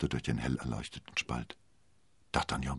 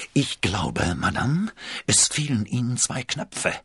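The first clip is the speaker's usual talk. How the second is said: raised, strained voice of a jealous king; hoarse call; 6 semitones higher than usual. A narrator's reading. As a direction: call it out hoarsely, pitch climbing. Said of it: "rief er heiser".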